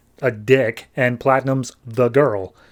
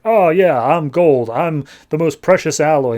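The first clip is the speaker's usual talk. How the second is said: cocky gold robot; 4 dB louder than usual. Retold or imitated. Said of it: "saying, like".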